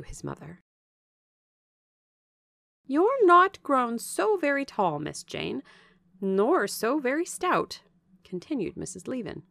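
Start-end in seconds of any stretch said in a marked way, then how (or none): 2.9-7.8 slow, emphatic appraisal in a raised voice; frank Bessie, appraising. Acted. Bessie looking Jane over after years apart, frankly appraising. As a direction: size her up slowly, with swooping stress.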